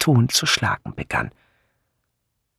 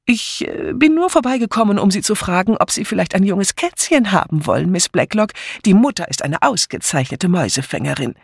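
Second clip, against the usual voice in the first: uneasy; 7 semitones higher than usual. A narrator's reading. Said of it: "wurde ihr auf einmal unbehaglich".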